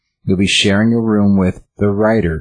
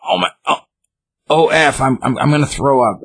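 retold panic; 7 semitones higher than usual. Artist sees atrocity posts, panics.

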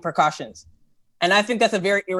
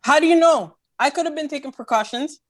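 couple bickering; 5 semitones higher than usual. Real, not acted. Couple arguing about lockdown blame.

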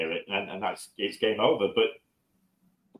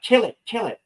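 higher, louder panicky cry of kill it; panicked inner voice; 11 semitones higher, 4 dB louder than usual. Retold or imitated. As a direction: blurt it out like a terrified man watching a spider. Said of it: "And I'm thinking, like".

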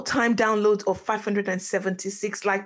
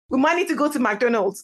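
said through a laugh; 2 semitones higher than usual. Real, not acted. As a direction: chuckle through the line. Laughing at own joke.

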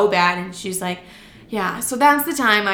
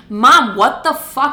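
retold disbelief; 4 semitones higher, 7 dB louder, slower than usual. Retold shock at prison security.

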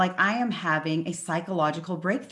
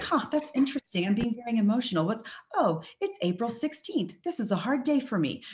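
gentle self-inquiry; 4 semitones higher than usual. Shown as a demonstration. Host shows the kinder way to ask yourself, gently curious. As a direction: talk to yourself kindly, like a curious friend. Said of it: "we don't wanna ask that way".

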